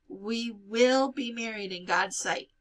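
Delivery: firm and slow, leaning on "will"; insist, steady and slow; adamant. A narrator's reading. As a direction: vow it, unshakably firm. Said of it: "Shmuel said adamantly".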